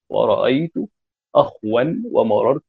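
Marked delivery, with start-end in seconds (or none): 1.3-1.8 أخوا said akh-wan; no vowel after the خ in أخوا, then -wan; silent-vowel kha, then waw. Shown as a demonstration. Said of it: "بإسكان الخاء".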